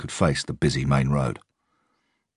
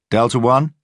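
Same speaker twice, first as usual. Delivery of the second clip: radio call; 9 semitones higher, 7 dB louder than usual. A narrator's reading. Officer calls on radio.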